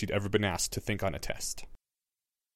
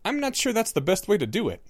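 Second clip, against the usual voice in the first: put-on calm boy voice; 9 semitones higher than usual. A narrator's reading. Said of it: "the other boy, Harry Potter".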